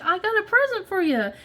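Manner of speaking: a hint of a cheeky kid handing over a gift; imitating the kids. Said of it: "And they're like".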